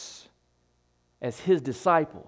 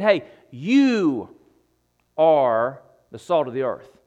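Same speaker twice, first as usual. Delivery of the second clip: loud, firm declaration as Jesus; Jesus quoted; 4 semitones lower, 4 dB louder than usual. Retold or imitated. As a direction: proclaim it like a command. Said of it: "Jesus said".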